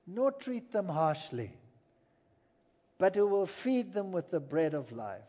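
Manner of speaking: usual speaking voice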